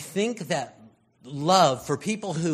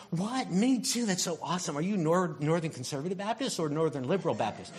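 excited; 4 semitones higher, faster than usual. Acted. Excited believer questioning a stranger.

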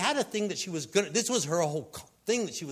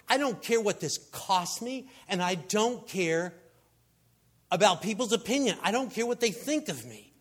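higher-pitched, emphatic defiance; defiant woman; 4 semitones higher than usual. Retold or imitated. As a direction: voice her throwing all caution away. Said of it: "She didn't care".

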